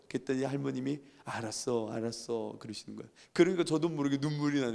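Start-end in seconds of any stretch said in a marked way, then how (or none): 1.2-2.6 low, soft grandmotherly assent; quiet brush-off. Retold or imitated. Grandmother answering grandson's plea to believe, quiet brush-off. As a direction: murmur it as a low, soft concession.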